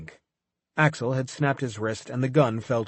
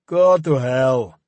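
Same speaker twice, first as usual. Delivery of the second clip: defiant; 8 dB louder, much slower than usual. A narrator's reading. Defiant captive curses captor.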